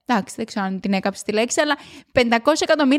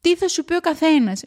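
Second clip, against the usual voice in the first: higher, fired-up pep talk; shouting from excitement, not anger; excited shouting; 6 semitones higher than usual. Real, not acted. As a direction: urge them on with real enthusiasm. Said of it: "Νομίζω ότι φωνάζω πολύ σήμερα".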